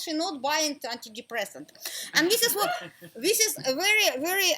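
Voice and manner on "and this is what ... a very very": laughing through the words; amused, laughing lead-in. Real, not acted. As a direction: chuckle as you explain. Laughing while explaining.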